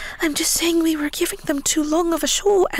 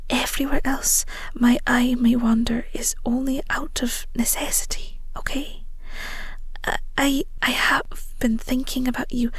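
hushed confession of love; tender whisper. Acted. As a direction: breathe it to her alone.

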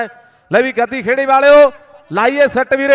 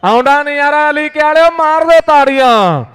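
hyping the crowd; 3 semitones higher than usual. Real, not acted. Urging crowd to clap.

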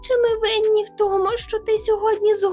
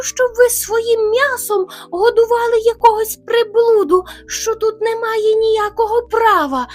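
loud, raised bear threat; shouting bear; 11 dB louder than usual. Retold or imitated. Hare imitating the rival bear's loud threat. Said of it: "так він до нас кричав".

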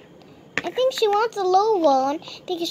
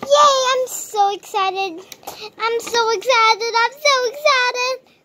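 higher and louder, bouncing with glee; overexcited; 5 semitones higher, 5 dB louder than usual. Acted. An overexcited sister being told to calm down, squealing. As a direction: gush with childish excitement. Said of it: "Calm down, A J".

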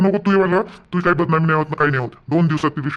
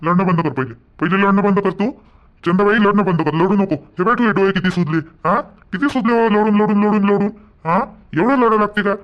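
firm, loud consoling; 3 semitones higher, 4 dB louder than usual. Acted. Brother scolds sister to stop crying.

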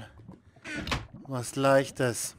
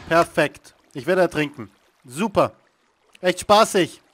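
sarcastic; 2 semitones higher, 8 dB louder than usual. Real, not acted. Drowning in game, calls it perfect.

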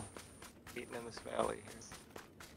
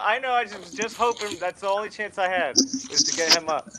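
frustrated excitement; 6 semitones higher, 12 dB louder than usual. Real, not acted. Explaining after being downed.

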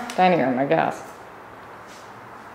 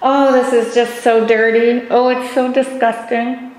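talking while holding breath; squeezed out on a held breath; 3 semitones higher, slower than usual. Real, not acted. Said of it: "I'm holding my breath while I walk through here".

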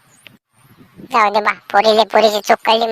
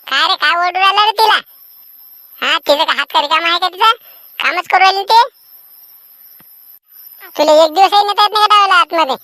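scolding mother; 5 semitones higher than usual. Acted. Mother scolds son for yelling.

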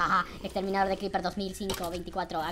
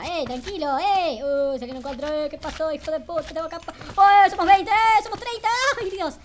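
frantic shouting; 9 semitones higher, 11 dB louder than usual. Real, not acted. Swarmed by monsters.

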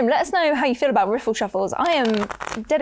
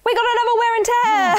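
higher, hammed-up reading voice; put-on card-reading voice; 9 semitones higher than usual. Reader obliging the table's request for a voice, put-on voice. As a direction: announce it in a silly high voice. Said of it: "Do a voice, though".

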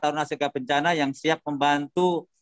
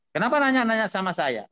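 retold angry retort; 6 semitones higher than usual. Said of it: "Dia malah yang marah-marah".

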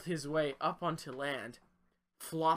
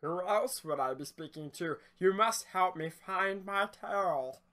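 salamander voice; 6 semitones higher, 6 dB louder than usual. Acted. Salamander pleads with fisherman.

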